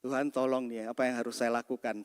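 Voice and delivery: soft, low plea to God; silent prayer. Retold or imitated. Pastor pleading inwardly to God as an angry man approaches, hushed prayer. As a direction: pray quickly under your breath, low and hushed. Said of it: "Saya cuma doa dalam hati".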